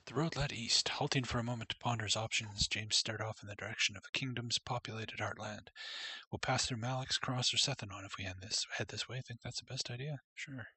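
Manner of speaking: steady storybook reading voice; story narration. Acted. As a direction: read it like a storybook. Reads game story text.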